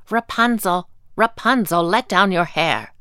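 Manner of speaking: a hint of a witch, calling up. A narrator's reading. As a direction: call up to the tower like the witch. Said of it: "the witch called".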